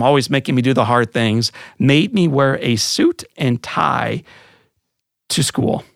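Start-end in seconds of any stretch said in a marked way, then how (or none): 1.8-5.8 a teenager's hammed-up indignation over the suit; mock outrage. Mock teenage indignation, pitch jump.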